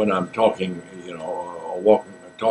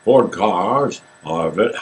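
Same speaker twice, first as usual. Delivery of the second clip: lightly voiced, slow, louder Burton sales pitch; Burton impression attempt; 3 semitones lower, 3 dB louder, much slower than usual. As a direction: try a booming Welsh stage voice and falter. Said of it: "do it like Richard Burton".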